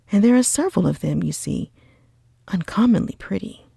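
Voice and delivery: eager, cheerful cry. Acted. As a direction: gush about the pretty girls. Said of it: "cried Bingley".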